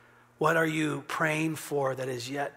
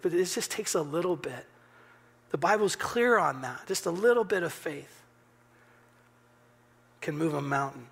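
preacher driving a point home; emphatic preaching; 3 semitones higher than usual. Acted. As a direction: press the point home to the congregation.

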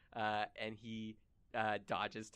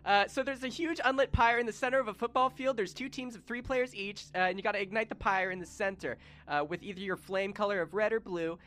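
put-on higher child voice, rushing through rules; eager kid explaining; 8 semitones higher, 5 dB louder, faster than usual. A boy explains his made-up game to the party, high and eager. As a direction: rattle off rules like an excited kid.

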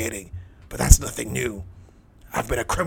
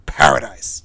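Paradise said much lower, drawn inward; echoing in the mind; 11 semitones lower, 3 dB louder than usual. A narrator's reading. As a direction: let Paradise sink low as if echoing inside. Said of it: "The word echoed in my mind".

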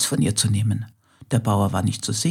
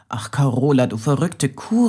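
called out; 3 semitones higher, 3 dB louder than usual. Acted. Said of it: "rief er".

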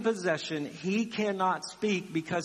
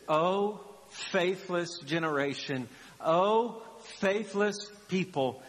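slow, understated exasperation; exasperated; slower than usual. Acted. Jesus addressing a faithless people, mildly exasperated. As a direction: weigh each word in mild reproach. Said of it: "to being exasperated".

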